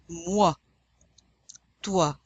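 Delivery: "Moi" and "Toi" with oi spoken as wa; French oi words. Shown as a demonstration. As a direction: model each word for the class to repeat. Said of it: "Repeat after me".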